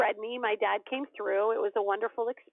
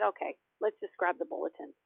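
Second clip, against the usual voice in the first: lower, softer relenting; giving in; 4 semitones lower, 5 dB quieter than usual. Retold or imitated. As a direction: give in quietly to a pestering kid. Mom gives in to jumping son.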